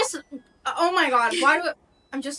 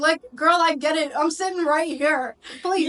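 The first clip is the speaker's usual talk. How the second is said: exasperated; 4 semitones higher, 4 dB louder than usual. Real, not acted. Annoyed at the Alexa.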